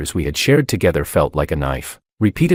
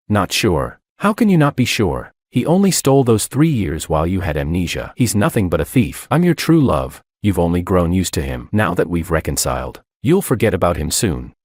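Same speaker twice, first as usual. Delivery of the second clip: angry, raised shouting. Acted. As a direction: shout it in a jealous rage. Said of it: "He shouted".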